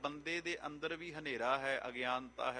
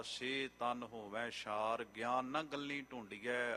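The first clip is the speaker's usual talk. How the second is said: slow scripture recitation; 3 semitones lower, slower than usual. Acted. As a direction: draw out each line of the verse. Recites scripture verses slowly.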